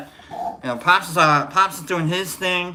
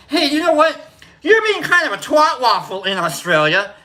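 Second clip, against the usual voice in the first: mock insult; 9 semitones higher, 5 dB louder than usual.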